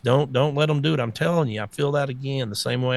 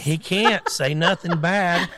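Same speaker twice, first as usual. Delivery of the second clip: laughing; 3 semitones higher, slower than usual. Real, not acted. Laughing while speaking.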